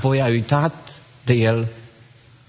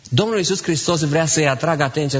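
normal talking voice

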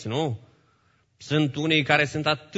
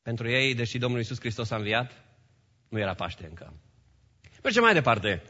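ordinary delivery

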